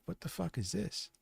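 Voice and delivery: mock disbelief. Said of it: "and he's like".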